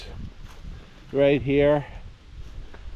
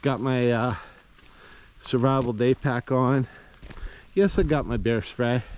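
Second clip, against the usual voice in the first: out of breath. Real, not acted. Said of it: "if I sound a little out of breath".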